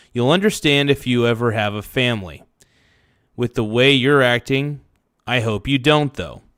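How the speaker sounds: ordinary delivery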